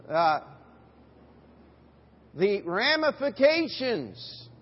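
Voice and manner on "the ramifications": "ramifications" slowly, leaning hard on RAM; stress on first syllable. Shown as a demonstration. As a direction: punch the opening RAM of "ramifications". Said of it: "emphasis on the first syllable".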